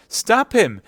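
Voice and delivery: high, loud, slow alarm shout. A narrator's reading. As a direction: yell to stop the thief. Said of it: "I cried".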